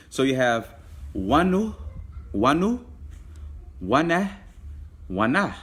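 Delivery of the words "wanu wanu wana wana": "wanu" and "wana" sung out higher with rising tune, last "wana" falls; teacher drilling words. Shown as a demonstration. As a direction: model each word for the class to repeat. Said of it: "You can say that with me".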